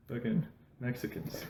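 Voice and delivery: mock whisper of an ignorant thought. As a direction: drop to a guilty whisper. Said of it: "And I'm like".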